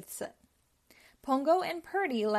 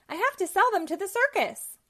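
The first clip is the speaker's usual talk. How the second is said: ranting villain; 9 semitones higher, 5 dB louder than usual. Acted. Cruella ranting.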